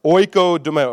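"Oikodomeo" with oi as in oil, no N sound; correct pronunciation. Shown as a demonstration. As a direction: say "Oikodomeo" cleanly, never "oink". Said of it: "does not say oink like a pig".

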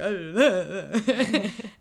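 imitated wordless sobbing mumble; hammed-up tearful slurring; drunken crying babble. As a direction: blubber to yourself like a mock drunk. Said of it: "stumbling and crying and, like, talking to himself".

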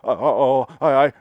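stammering simpleton act; mock-confused, halting stutter; Primal Fear simple boy. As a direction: stumble over each sound, playing dumb. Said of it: "that stupid Simple Boy routine".

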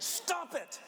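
high, loud, slow snap with a laugh; laughing mock snap. Pastor mock-snapping at his kids, laughing.

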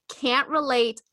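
deadpan sarcasm. Pretend. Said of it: "clearly I'm joking".

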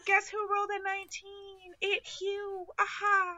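high, gleeful bragging voice; excited bragging. Real, not acted. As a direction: crow over the roll. Bragging about a good roll.

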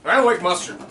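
just a touch of Southern accent, casual. Real, not acted. Tasting wing sauce, says he likes mustard, light Southern accent. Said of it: "why you said that with a southern accent".

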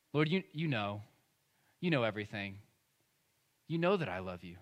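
grieved, low and subdued reply; Peter. Acted. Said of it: "he was grieved by that third question".

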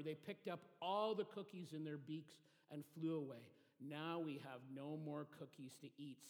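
lively storybook reading with character voices; children's story reading. Acted. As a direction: read it like a bedtime story for kids. Reads a children's story aloud.

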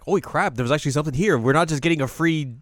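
high, loud sarcastic astonishment; mock amazement. Group ribbing a friend who was right, exaggerated sarcastic amazement. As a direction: overplay the shock, dripping with sarcasm.

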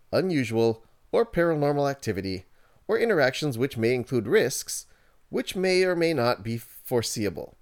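corporate announcer reading a disclaimer; radio voice. Acted. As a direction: read it like a slick radio ad. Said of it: "I'm gonna put my radio voice for this one".

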